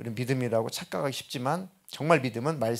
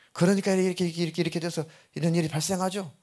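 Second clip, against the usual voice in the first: raised-pitch, hurried lecturing; pitched-up, rattled-off mock sermon reply; mock preachy explaining; 4 semitones higher, faster than usual. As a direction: imitate an unsympathetic preacher listing reasons. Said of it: "설교 스타일의".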